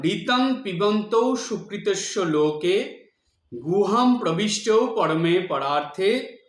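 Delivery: slow, weighty Sanskrit chant; measured mantra recitation; emphatic recitation. Shown as a demonstration. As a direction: read the whole verse clearly and firmly. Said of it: "স্পষ্ট উচ্চারণ করে জোর দিয়ে পড়বেন".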